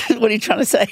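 amused laugh through the question. Real, not acted. To the interviewer, amused and laughing. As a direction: laugh it off, teasing back.

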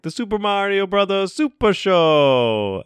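big booming TV announcer. Retold or imitated. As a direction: belt it like the show intro. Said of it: "with it being like".

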